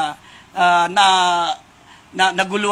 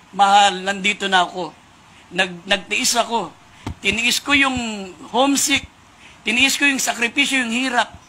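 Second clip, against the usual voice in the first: gentle plea. Retold or imitated. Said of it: "Kumatok siya ng marahan at mahinahon".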